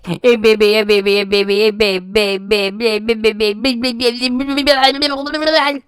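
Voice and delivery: mocking fake sweetness. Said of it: "it comes off as so fake".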